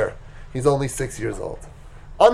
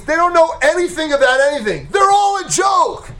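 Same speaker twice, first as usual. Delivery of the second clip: building to scornful shout; 3 semitones higher than usual. Acted. Father's advice building to scornful outburst.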